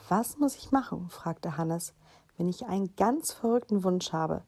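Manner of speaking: put-on lively children's story narration; story reading. A narrator's reading. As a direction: read it aloud like a bedtime story. Reads story aloud to children. (lebhaftes Vorlesen für Kinder)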